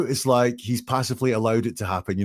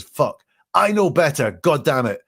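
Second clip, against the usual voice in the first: mildly raised, higher mock outburst; retold cursing; 4 semitones higher, 4 dB louder than usual. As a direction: act out a frustrated self-reproach. Acting out caller's regretful cursing.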